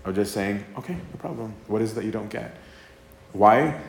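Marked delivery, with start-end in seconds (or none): 0.8-2.5 gentle reassurance. Retold or imitated. God answering questions gently.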